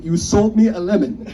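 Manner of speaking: imitating the store owner's angry yell; mock scream. The store owner yells at the boys, mock loud. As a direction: shout it like a cheated buyer. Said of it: "started screaming".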